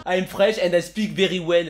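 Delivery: slow English with a thick French accent. Shown as a demonstration. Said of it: "ils adorent quand on parle anglais avec notre accent". (anglais lent avec un fort accent français)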